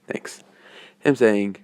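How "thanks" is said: soft, sighed-out yes and thanks; sighing reply. Acted. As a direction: give in with a quiet sigh. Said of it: "Her sighing, saying".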